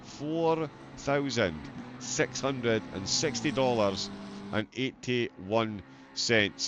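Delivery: each number said slowly and deliberately; slow, spelled-out amount. Real, not acted. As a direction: draw the figure out slowly for emphasis. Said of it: "You heard me right".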